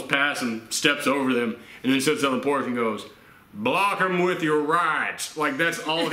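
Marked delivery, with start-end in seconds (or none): 3.5-5.3 lightly voiced drunk father, slow; slow mock drunk-dad voice. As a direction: imitate a drunk dad, drawing the words out. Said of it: "this drunk".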